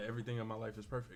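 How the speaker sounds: ordinary talk, nothing marked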